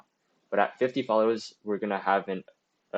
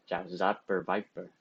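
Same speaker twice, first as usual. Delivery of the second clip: Vietnamese accent, said more smoothly; 4 dB quieter than usual. Shown as a demonstration. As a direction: land the Vietnamese accent this time. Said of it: "it's hard to say that in Vietnamese accent".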